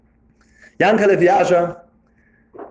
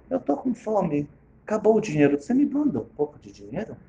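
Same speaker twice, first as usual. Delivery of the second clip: softer, casual, tossed-off ask for money; offhand request; 3 semitones higher, 5 dB quieter than usual. Acted. Friend reading the money request as a casual afterthought. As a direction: slip the request in lightly at the end. Same plea read lightly.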